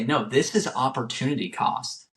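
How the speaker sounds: emphatic, explanatory retold mentor; mean each word, as if really teaching it; talking with conviction. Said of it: "he would literally talk about it".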